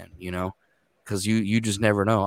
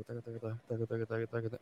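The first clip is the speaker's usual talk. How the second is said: soft, quick taka taka under the breath; rapid murmured interpreting; 15 dB quieter, faster than usual. Shown as a demonstration. Interpreter showing how he mutters while working, very softly. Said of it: "I'll close my eyes and I'll go".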